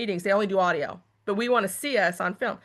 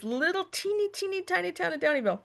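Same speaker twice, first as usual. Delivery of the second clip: cutesy tiny-town voice; 8 semitones higher, 4 dB quieter than usual. Retold or imitated.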